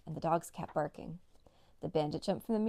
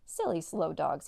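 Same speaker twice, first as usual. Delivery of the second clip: taunting; 3 dB louder than usual. Acted. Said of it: "he taunted".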